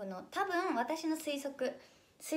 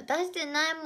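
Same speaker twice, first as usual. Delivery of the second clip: loli voice; 5 semitones higher, 4 dB louder than usual. Acted. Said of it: "ロリー声出すな".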